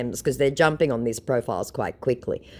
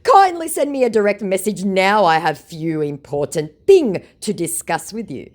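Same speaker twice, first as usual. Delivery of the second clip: mock scammer voice; 6 semitones higher, 5 dB louder than usual. Voicing scammer.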